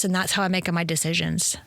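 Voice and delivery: put-on playful Italian accent with added vowels; mock Italian accent. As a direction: put a little Italian lilt on it. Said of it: "I'm Italian".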